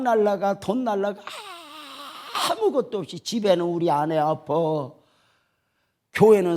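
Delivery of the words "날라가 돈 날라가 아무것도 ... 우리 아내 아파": half-sung, tearful wail; crying lament. Real, not acted. Preacher laments the lost church money, crying. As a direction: wail over the loss.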